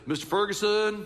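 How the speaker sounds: light Southern drawl on the name; a hint of the teacher's Southern drawl. Pastor imitating seventh grade teacher calling him out, light Southern drawl. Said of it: "that's how he talked".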